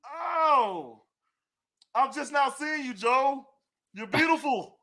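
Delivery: ordinary talk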